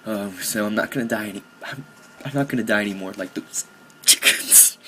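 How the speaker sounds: pretending to choke up; hammed-up struggle to get the words out; mock emotional. Gamer vows not to die like those chickens, mock choked-up. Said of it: "Sorry, I get emotional".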